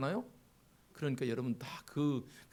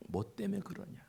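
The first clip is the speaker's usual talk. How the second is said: rising from gentle to loud, higher calling; god calling out; 4 semitones higher, 10 dB louder than usual. Acted. God asking the downcast believer, building to a loud call. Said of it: "그러면서 말씀하시겠죠".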